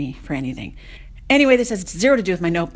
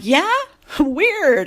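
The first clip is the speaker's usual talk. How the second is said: higher, louder questioning reply with a laugh; puzzled; 9 semitones higher, 6 dB louder than usual. Retold or imitated. Traveler answering the border agent, amused and puzzled. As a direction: laugh it off as odd.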